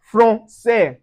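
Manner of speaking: "français" slowly with nasal first vowel. Shown as a demonstration. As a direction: say "français" as fron, seh. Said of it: "we pronounce as un".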